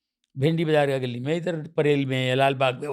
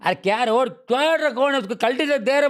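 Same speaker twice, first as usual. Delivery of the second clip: higher and louder street challenge in Tamil-Bambaiya; Tamil-Bambaiya street slang; 7 semitones higher, 3 dB louder than usual. Retold or imitated. One local challenging another on the lane, Tamil-Bambaiya slang. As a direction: play a Dharavi tough calling someone out, Tamil-Bambaiya. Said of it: "वही language Tamil में".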